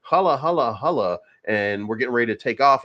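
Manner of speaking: lightly hyped radio DJ hype; mock radio host pumping the crowd; a hint of a hammed-up DJ. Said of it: "he says it in the radio D J voice".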